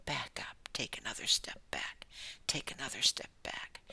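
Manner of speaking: soft, low guiding whisper; whispered instruction. Real, not acted. Preacher guiding listeners backward out of the room. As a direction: coax them back gently.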